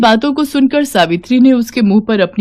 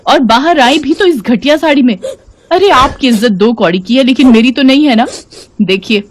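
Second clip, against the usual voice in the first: raised, indignant scolding; loud, higher-pitched berating with contempt; angry shouting; 4 semitones higher, 4 dB louder than usual. Acted. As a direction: lash out at an unwanted mother-in-law. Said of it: "चिल्लाकर बोली".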